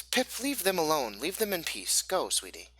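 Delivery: high-pitched motherly reproach; scolding mother. Acted. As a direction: shoo a child away from guests. Innkeeper's wife scolds her son Pip.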